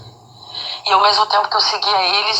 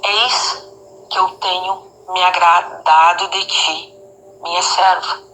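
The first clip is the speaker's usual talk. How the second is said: measured, solemn and unhurried, with pauses between phrases; bem suave; 2 semitones lower, slower than usual. Retold or imitated. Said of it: "bem suave". (voz suave e pausada)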